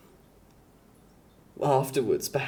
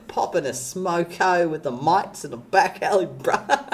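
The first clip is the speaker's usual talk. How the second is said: put-on Australian accent; 4 semitones higher than usual. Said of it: "the very unique language that is called Australian".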